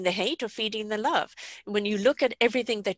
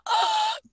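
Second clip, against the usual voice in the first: sharp high gasp for air; mimicking the gasp of an asthma attack; imitated asthma gasp. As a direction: act out a sudden gasp for breath. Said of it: "gasping for breath".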